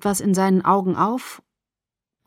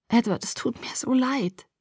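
whisper; 4 semitones higher, 6 dB quieter than usual. A narrator's reading. Waking girl apologizing to Edward.

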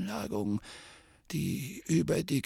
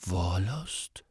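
puzzled; 5 semitones lower, 5 dB quieter than usual. A narrator's reading. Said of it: "wiederholte Harry verwundert".

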